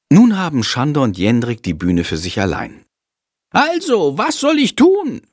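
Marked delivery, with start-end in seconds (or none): 3.5-5.2 high, eager little bat; small bat voice. A narrator's reading. Chandor the bat asking Jendrik, high and eager. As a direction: chirp the question eagerly. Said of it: "fragt Chandor".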